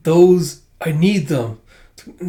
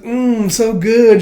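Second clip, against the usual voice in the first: slow, high, louder mmm of bliss; savouring; 8 semitones higher, 6 dB louder, much slower than usual. Retold or imitated. Kid tasting the tea cake, slow and high with delight. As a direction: draw it out, relishing the taste. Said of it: "He's like".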